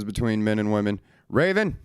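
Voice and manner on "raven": sharp call. Real, not acted. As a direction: snap the dog's name to stop her. Calling out to his chewing dog.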